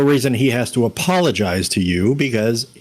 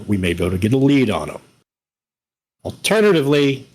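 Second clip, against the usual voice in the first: put-on Bronx accent. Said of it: "talking with a Bronx accent".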